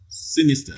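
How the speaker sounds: Sinister with SIN prominent; stress on first syllable. Shown as a demonstration. Teacher confirms the answer, Sinister stressed on SIN. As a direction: hit the first syllable of Sinister, then fall. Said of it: "first syllable receives the primary stress".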